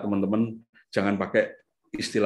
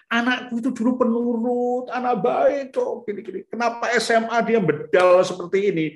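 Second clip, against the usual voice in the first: much higher, pleading mother's voice, bursting out on "anak baik kok"; worried mother's complaint; 11 semitones higher than usual. Retold or imitated. Worried mother consults doctor.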